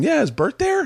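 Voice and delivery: high mock caller's voice; imitating caller. Imagined porn star phoning the house, high mock voice. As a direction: play the stranger phoning his wife. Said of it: "someone going".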